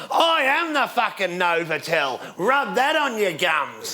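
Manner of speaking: put-on slow, drawn-out drunken holler; imitated drunk yell. Drunk guy walking past him, mock yell. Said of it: "yell this out at my head".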